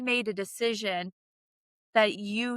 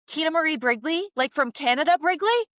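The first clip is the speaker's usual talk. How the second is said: amazed recognition; 6 semitones higher, 4 dB louder than usual. Retold or imitated. Barista recognizing her, amazed.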